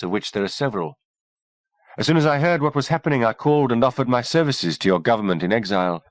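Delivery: a hint of a cool woman doctor. A narrator's reading. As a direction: lightly voice the poised doctor. The speaker voiced a calm doctor.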